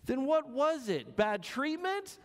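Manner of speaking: high curious question, lightly voiced; a touch of puzzled man asking; voicing the man. Preacher voicing the man quizzing the dog, high and curious.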